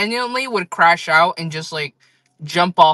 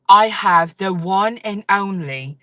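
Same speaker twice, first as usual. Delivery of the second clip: put-on accent of a gold Labubu influencer; imitated influencer accent. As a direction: announce it grandly in a mimicked influencer accent. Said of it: "I'm gonna do that exact accent too".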